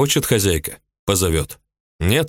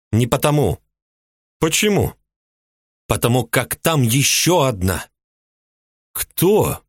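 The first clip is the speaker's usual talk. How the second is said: a much higher woman's voice, resentful and indignant; jealous housewife; 5 semitones higher than usual. A narrator's reading. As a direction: play the jealous mistress complaining. Ulyba voiced high.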